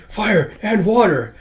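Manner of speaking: high, slow incantation; little wizard. Acted. Little wizard adding a new element, high slow cry. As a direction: draw out the spell grandly.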